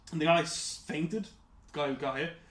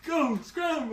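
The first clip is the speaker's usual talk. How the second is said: shouting; 13 semitones higher, 5 dB louder than usual. Retold or imitated. Acting out scaring players off.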